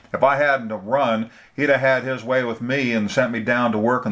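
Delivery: a hint of a scornful, frightened woman; recalling the man who killed her mother, bitterly; bitter older woman. Frances voiced, recounting trauma.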